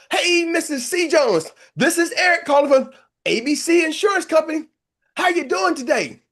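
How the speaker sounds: begging the next lead on the list to be the right one; desperate cold call. Retold or imitated. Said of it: "you're like".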